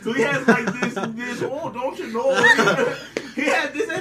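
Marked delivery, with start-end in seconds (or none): 1.4-2.3 imitated Midwestern lilt; Midwest accent. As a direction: put on a light Midwest accent. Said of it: "He's from, like, the Midwest".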